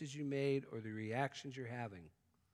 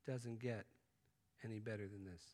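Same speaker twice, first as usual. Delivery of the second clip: hushed awe; 2 semitones lower, 8 dB quieter than usual. Retold or imitated. Hiker quietly marvelling at the view in hushed awe. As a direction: savour it like a breathtaking view. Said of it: "you find yourself saying".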